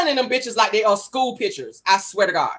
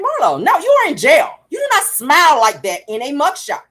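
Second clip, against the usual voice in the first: mock scolding; 3 semitones higher than usual. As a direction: chide her like a big sister.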